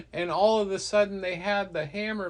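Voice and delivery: plain reading voice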